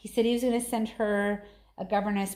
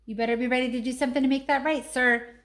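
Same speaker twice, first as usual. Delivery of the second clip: mock stern scold; 4 semitones higher, 4 dB louder, faster than usual. Real, not acted. Mother scolds son over cookie.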